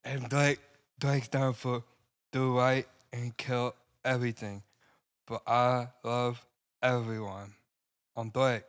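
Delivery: slow, dopey rapper voice; stupid rapper impression. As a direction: play a dim-witted rapper, slowly. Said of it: "Stupid, stupid Drake is what I call him".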